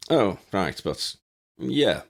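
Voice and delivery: flustered halting reply; stammering. Acted. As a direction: stumble over the words. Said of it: "Ginny stammered".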